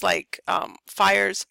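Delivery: words stretched by a yawn. Real, not acted. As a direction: talk through a yawn. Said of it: "I keep yawning".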